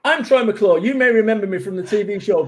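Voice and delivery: mild hammed-up Simpsons host voice; Troy McClure impression. The speaker introducing himself like the TV host Troy McClure, lightly hammed. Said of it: "You ever seen Troy McClure?".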